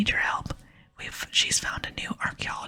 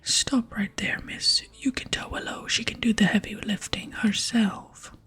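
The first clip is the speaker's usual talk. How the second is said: firm, punchy stage whisper; indignant barbarian. Pretend. Barbarian refuses to help Willow, indignant stage whisper. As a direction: cut the visitor off as a proud strongman.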